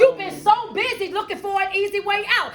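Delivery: driving, emphatic motivational preaching; fervent preaching. Real, not acted. Coach warning listeners about skipping life's lessons, preaching. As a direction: preach it, leaning hard on key words.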